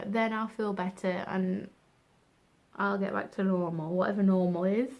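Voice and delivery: words stretched by a yawn; talking through a yawn. Real, not acted. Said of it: "cut as much yawning out as I can".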